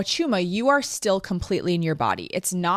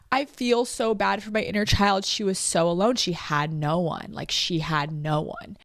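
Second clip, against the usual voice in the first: getting emotional. Real, not acted. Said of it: "Wow, I'm getting emotional".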